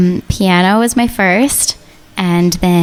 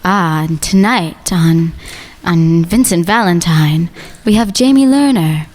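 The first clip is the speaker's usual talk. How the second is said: sultry late-night radio host; 2 semitones lower than usual. Pretend. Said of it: "Let's hear your radio voice".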